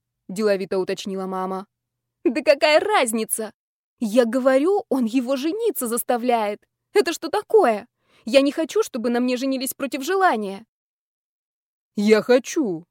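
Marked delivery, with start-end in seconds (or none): 2.2-10.6 higher, louder indignant rant; outraged protest. Acted. Heroine angrily protests to mom. 12.0-12.9 proclaimed. Acted. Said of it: "возвестил Колчиновский".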